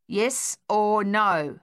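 slow, mildly brusque demand. Acted. Sonia demanding an answer from the old woman, slow and mildly brusque. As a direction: press her for an answer, mildly curt. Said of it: "Sonia said brusquely".

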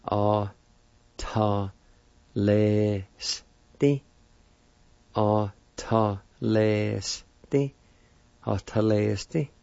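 Atalesti said clearly, ah-ta-LES-ti; pronounce Atalesti. Shown as a demonstration. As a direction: repeat Atalesti for learners. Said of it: "It's pronounced like this".

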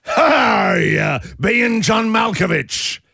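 pirate voice. Pretend. Pun title in pirate voice.

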